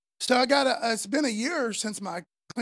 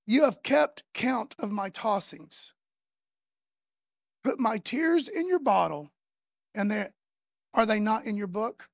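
slow reading. Shown as a demonstration. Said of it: "Now listen to what King David says".

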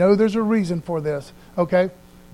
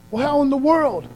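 high-pitched mock disbelief; baffled objection; 7 semitones higher than usual. Doubter asking how God can use this, baffled. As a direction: pipe up as a puzzled doubter.

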